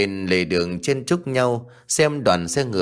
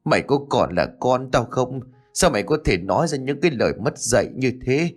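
bitter reproach; 4 semitones higher than usual. Acted. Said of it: "chỉ còn gắn lên từng tiếng".

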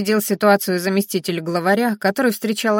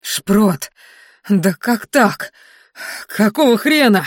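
hollow voice; 4 dB louder, slower than usual. Acted. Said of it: "каким-то пустым голосом произнёс".

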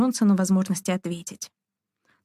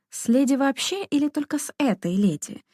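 higher, mildly biting question; understated jibe in a raised pitch; caustic; 6 semitones higher than usual. A narrator's reading. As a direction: ask it with a touch of sarcasm. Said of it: "язвительно спросила Дарина".

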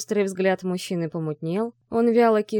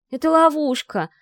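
much higher, louder alarmed rush; panicky; 8 semitones higher, 5 dB louder than usual. Acted. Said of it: "занервничала Ви".

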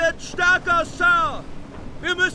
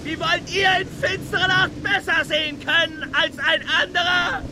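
shouted retort; 3 semitones higher than usual. Acted. Sailor to his officer about seeing at night, shouted retort. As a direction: answer back over the storm. Stubb shouts back at Starbuck.

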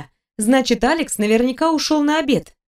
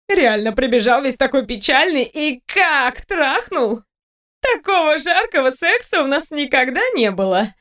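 taunting seductress; 3 semitones higher than usual. Acted. Kate taunts the heroine.

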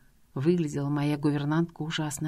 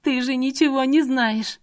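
high, loud unhinged retort; a crazed woman snapping back; a hysterical kidnapper lashing out at the man; hysterical outburst; 7 semitones higher, 4 dB louder than usual. Acted. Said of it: "Тамара в истерике захохотала".

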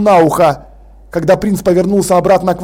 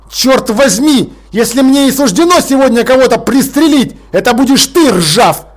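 fed-up commander growling a threat at the lord; growled threat; 4 semitones higher than usual. Acted. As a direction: threaten him through clenched anger. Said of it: "прорычал Ваймс".

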